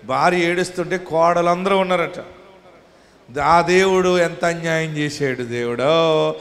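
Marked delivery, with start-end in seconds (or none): 3.4-6.3 slow, drawn-out mock lament; imitating a mother-in-law's theatrical crying, slow; mock wailing. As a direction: ham up a widow's wail. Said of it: "అని ఏడుస్తుంటే".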